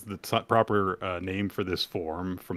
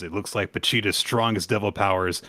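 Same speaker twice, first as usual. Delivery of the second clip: proud boast; 2 semitones higher, 4 dB louder than usual. Acted. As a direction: boast it grandly. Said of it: "he says".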